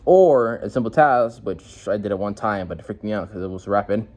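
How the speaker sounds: talking around a phone in mouth; muffled, phone clenched in teeth; phone held in teeth. Real, not acted. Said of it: "Got a phone in my mouth".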